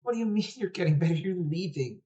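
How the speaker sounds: high, quick, upset challenge; incredulous little brother. Acted. Little brother disputes sister getting better, upset.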